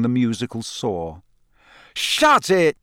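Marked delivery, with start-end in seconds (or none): 1.9-2.8 higher, louder bark over the noise; bellowed. A narrator's reading. Fred bellows at the screeching egg, loud. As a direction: yell over a horrible wail. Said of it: "Fred bellowed".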